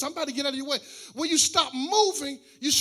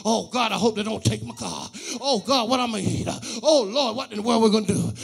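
mock worried plea; 3 semitones lower than usual. Pastor voicing a frightened believer praying about bills, mildly fretful. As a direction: play the anxious one begging God under the breath.

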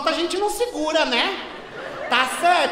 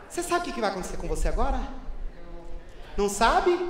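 menacing hush; 8 semitones lower, 8 dB quieter, faster than usual. Acted. Threatening the employee.

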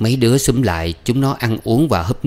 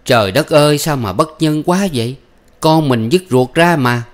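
higher, louder outcry of dismay; exclaiming; 6 semitones higher, 4 dB louder than usual. A narrator's reading. Neighbour appalled at the mother's desertion, exclaiming. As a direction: cry out in indignation. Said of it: "Có người kêu lên".

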